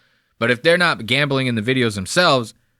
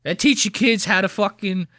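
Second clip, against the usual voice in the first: higher-pitched mock kids-show host; Mister Jerry; 7 semitones higher than usual. Host spoofing Jerry greeting kids, high hammed-up Jersey kids-host voice. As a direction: parody a Jersey children's presenter. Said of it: "He wants to be Mister Jerry".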